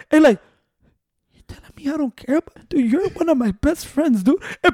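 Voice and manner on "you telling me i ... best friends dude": soft imitation of a drunk, hurt friend; quietly pleading, as retold; mock heartfelt drunk appeal; drunk emotional. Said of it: "a drunk emotional way".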